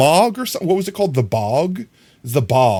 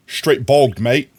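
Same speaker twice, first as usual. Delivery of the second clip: a light mock Australian accent on bogged, mate; slower than usual. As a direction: slip into a quick Aussie twang. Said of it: "Why did I go Australian?".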